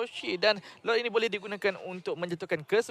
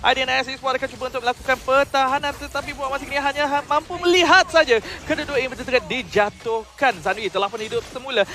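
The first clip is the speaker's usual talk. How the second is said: excited play-by-play; 6 semitones higher, 9 dB louder than usual. Acted. Co-caster builds hype on push.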